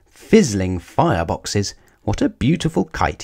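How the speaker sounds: an awestruck little engine; amazed delight. Acted. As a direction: marvel at the kite, voice leaping up. Thomas marvels at a kite.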